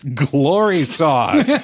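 slow, laughing repeat of Glory sauce; laughing echo. Real, not acted. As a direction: savour the silly name through a laugh. Echoes the name, laughing.

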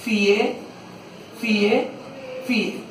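Fie, fie, fie said one by one; fie counted. Shown as a demonstration. Pupil asks, teacher counts out fie. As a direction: tap out each fie. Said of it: "Profe, enséñame los tres fi".

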